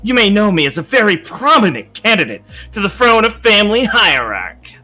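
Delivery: pompous noble. Acted. Yihua announces himself grandly.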